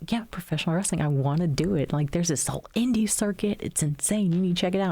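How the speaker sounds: excitedly talking someone into it; eager pitch. Retold or imitated. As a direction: gush lightly as if selling a new passion. Retelling her eager pitch to husband.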